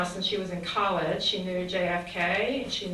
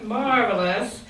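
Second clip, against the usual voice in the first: imitating Mary; 4 dB louder, slower than usual. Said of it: "you can imagine her saying it".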